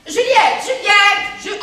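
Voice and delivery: summoning the maid from afar; calling out. Acted. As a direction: call the maid's name loudly. Calling the maid from another room.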